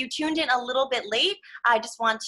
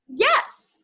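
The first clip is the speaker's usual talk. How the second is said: chirpy Piggy; 11 semitones higher, 6 dB louder than usual. Acted. Piggy answers brightly.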